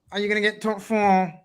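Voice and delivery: imitating Saeed's accent. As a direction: slip into an imitation accent mid-question. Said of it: "Why am I doing the Saeed accent?".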